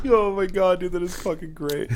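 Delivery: delighted, talking through laughs; cracking up. Real, not acted. Cracking up at the joke.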